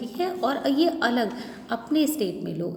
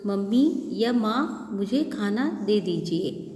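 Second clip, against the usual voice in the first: slow, careful polite asking; calm correct Hindi, unhurried; polite correct request. Shown as a demonstration. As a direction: model the proper way to ask mom. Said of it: "ऐसे बोलते हैं ना".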